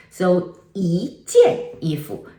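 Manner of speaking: 一件衣服 said slowly, 一 rising before 件; 一件衣服 as a careful slow example; slow tone demo. Shown as a demonstration. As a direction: spell out 一件衣服 carefully, yí jiàn. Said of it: "no longer pronounce".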